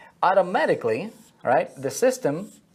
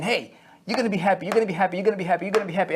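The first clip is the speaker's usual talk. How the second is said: pushy, repetitive sales pitch, a bit faster; mock hard sell; 4 semitones higher, much faster than usual. Marketer hammering the prospect with a pushy pitch. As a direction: hammer him with the same promise. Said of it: "they're trying to hammer this guy".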